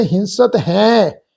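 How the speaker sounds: ਹੈ said through the nose, nasal vowel; ਹੈ with a nasalised vowel; nasal pronunciation. Shown as a demonstration. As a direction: give ਹੈ a nasal hain sound. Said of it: "ਨਾਲ ਨਾਸਕੀ ਉਚਾਰਨ ਆ".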